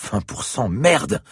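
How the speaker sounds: high shocked curse; exclaimed. Acted. Siberski exclaiming at the infection odds. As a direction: react in shock to the figure. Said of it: "s'exclama Siberski".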